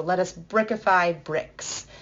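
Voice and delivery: slow, with "brickify" punched and falling; stress on brickify. Shown as a demonstration. Teacher emphasizing the verb-noun repetition, slowly. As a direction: hit "brickify" hard, slowly. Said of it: "they will use both the verb form and the noun form".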